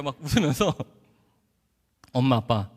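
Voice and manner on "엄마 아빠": low, measured mock-solemn announcement; lower-pitched, self-assured pledge; grand promise. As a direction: declare it like a confident son. Proud son's grand promise to parents.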